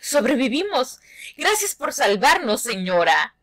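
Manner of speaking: put-on light kid voice, grateful; lightly voiced children thanking her; rescued kids.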